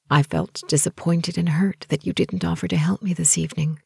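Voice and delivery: tender and straightforward; gentle directness. Acted. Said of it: "said with gentle directness".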